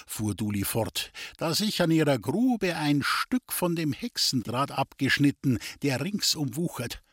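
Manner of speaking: a hint of a wheedling gypsy fortune-teller; sly gypsy. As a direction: tease him with the rival's luck. The gypsy Duli tells of the queen.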